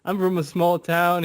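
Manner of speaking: acted-out excited complaint; going off. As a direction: stretch it out in mock disbelief. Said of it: "He started going off like".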